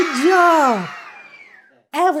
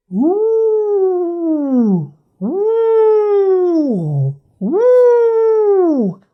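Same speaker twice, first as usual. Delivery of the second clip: rising wolf calls; wolf howl; 6 semitones higher, much slower than usual. Shown as a demonstration. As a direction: howl climbing higher each time. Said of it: "A wolf says".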